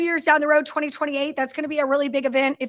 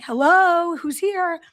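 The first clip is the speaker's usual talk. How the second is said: drawn-out mock yell, slightly raised; retold scream; 2 semitones higher, much slower than usual. Host retelling calling down an empty hallway, mock scream. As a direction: call out as if into an empty building, toned down. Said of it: "I keep screaming".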